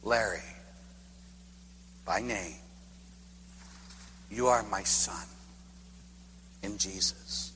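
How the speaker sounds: hushed with long pauses, like a voice from deep within; God's inner voice. Retold or imitated. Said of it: "I heard deep within me".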